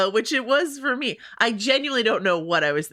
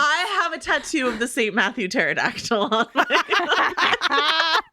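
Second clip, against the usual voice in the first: words breaking up with real laughter, slowed; laughing while talking; 5 semitones higher, slower than usual. Real, not acted. Joking about a pterodactyl tattoo while laughing. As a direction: giggle through the joke.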